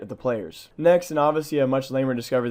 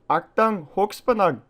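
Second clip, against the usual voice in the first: "Achtung" in a louder, higher mock German accent; 7 semitones higher, 4 dB louder, slower than usual. Reading a high voltage sign, loud mock German accent. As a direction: bark "Achtung, Hochspannung" out like a hammed-up German. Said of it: "sorry for my terrible German accent".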